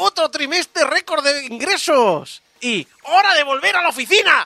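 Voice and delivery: drawn-out, very high, slow, put-on squeaky voice. Imagining himself saying the Venture Company's lines, in a put-on voice. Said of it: "yo me imagino con esa voz".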